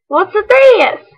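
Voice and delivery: high, curious little voice; a squeaky mouse finding something. Acted. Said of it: "He sniffed the mitten".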